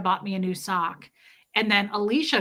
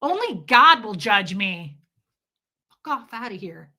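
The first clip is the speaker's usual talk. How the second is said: mock defiance; 5 dB louder than usual. Comedian answering her partner's accusation, mock defiant. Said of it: "I was like".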